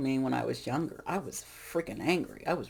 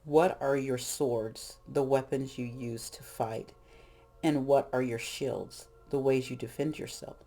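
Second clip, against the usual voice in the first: reflective prompts. Acted. Guided reflection questions.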